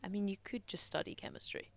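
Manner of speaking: teasing whisper. Real, not acted. Co-host whispers a teasing suggestion about chemistry, whispering. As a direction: whisper it as a sly tease.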